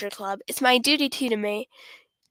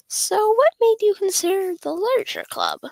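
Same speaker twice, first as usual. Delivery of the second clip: bright club president; 8 semitones higher, 4 dB louder than usual. Acted. Club president voiced, asking newcomer.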